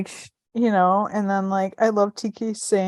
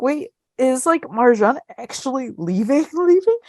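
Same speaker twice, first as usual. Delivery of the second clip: higher-pitched, incredulous question, lightly acted; mock spiraling; 5 semitones higher than usual. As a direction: retell your rising disbelief, breaking into a laugh.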